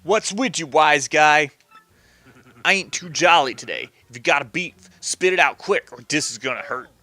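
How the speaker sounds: put-on light New York Italian tough-guy accent; lightly voiced New York Italian mobster. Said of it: "I should do this New York Italian accent thing".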